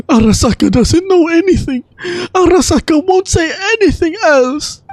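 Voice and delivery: a nervous little spirit clamming up; tiny forest creature voice. Acted. Little creature dodging the traveler's question, high and flustered.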